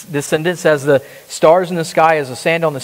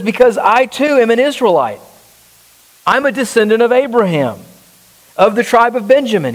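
higher-pitched, insistent preaching; impassioned testimony; 5 semitones higher than usual. Acted. Preacher as Paul claiming to be an Israelite, impassioned. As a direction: declare your credentials with conviction.

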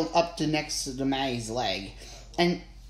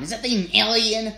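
alarmed question; 6 semitones higher, 5 dB louder than usual. Acted. Wife alarmed by strange creature.

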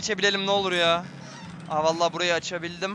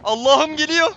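panicked rising cry; startled fear as the doctor nears; 1 scared gasp; 7 semitones higher, 5 dB louder, slower than usual. Real, not acted. Korku oyununda doktor yaklaşıyor. (korkuyla yükselen ses)

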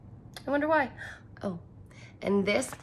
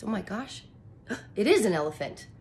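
surprised; faster than usual. Acted. Teacher gasps at discovering elephant.

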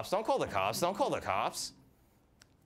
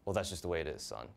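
dad voice; 7 semitones lower, 4 dB quieter than usual. Retold or imitated.

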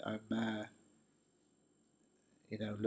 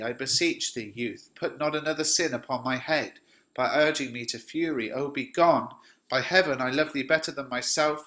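raised, urgent plea to leave; desperate pleading; 3 semitones higher than usual. Acted. Romeo begging Paris to go, raised and desperate. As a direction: beg the boy to flee before you snap.

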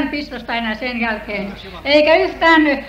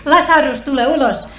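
calling Lazarus; 4 dB louder than usual. Retold or imitated. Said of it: "hän huusi".

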